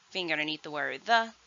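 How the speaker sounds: ordinary talk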